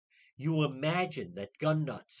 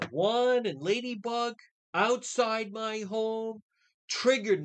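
mocking Perkins; 3 semitones higher, 4 dB louder than usual. Host imitating Perkins' excuses, whiny and loud. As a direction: stretch it out like a self-pitying excuse, louder.

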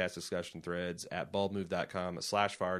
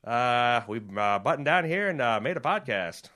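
hammy Minnesota accent, pitched up; bad Minnesota accent; 2 semitones higher, 5 dB louder than usual. Shown as a demonstration. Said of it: "that's a bad Minnesota accent".

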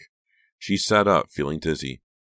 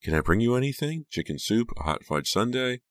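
high, solicitous questions; sympathetic offer; 8 semitones higher than usual. A narrator's reading. Trish offers to bring sick Becca something, sympathetic. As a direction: offer help with a lifted, caring tone. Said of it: "Trish said sympathetically".

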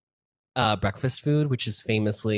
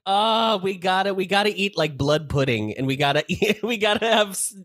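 mock Brit; 7 semitones higher than usual. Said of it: "They still love pretending".

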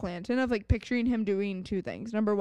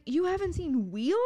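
higher mock-Southern incredulous question; imitated Southern accent; 5 semitones higher than usual. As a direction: echo a puzzled Southern woman. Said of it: "She is from the South".

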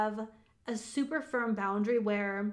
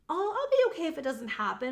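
higher-pitched, easygoing concession; going easy on oneself; 5 semitones higher than usual. Retold or imitated. Coach mimics excusing herself from her goal, easygoing. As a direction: let yourself off the hook. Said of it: "going easy on myself".

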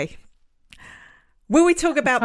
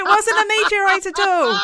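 high, loud laughing shout of the punchline; loud delighted shout at the twist; gleeful shout; 11 semitones higher, 5 dB louder than usual. Real, not acted. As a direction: deliver the reveal with a big burst. Punchline of the hoax story.

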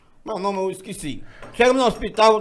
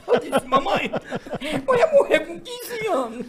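laughing; 9 semitones higher, slower than usual. Real, not acted. Laughing at the punchline.

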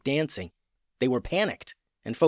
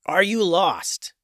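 slower and louder, each word spaced; slow repeated question; 6 semitones higher, 4 dB louder, slower than usual. Acted. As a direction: repeat it slowly and clearly. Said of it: "repeated the troll".

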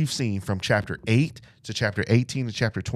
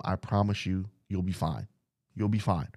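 soft reassurance; 2 semitones lower, 6 dB quieter than usual. Pretend. Jonathan comforting David.

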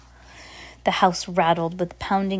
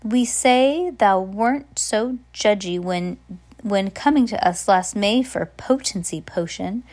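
sly taunting; 3 semitones higher, 4 dB louder than usual. Acted. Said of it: "Sarah Sanderson tilted her barrel and said".

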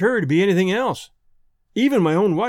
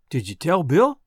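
tender voice; 2 semitones lower than usual. A narrator's reading. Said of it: "in a kind of tender voice".

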